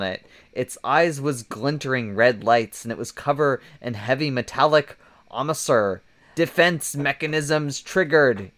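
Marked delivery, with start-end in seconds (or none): 6.4-8.5 lightly voiced machine warning; robot voice. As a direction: read it like a machine, mildly. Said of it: "in a robotic voice".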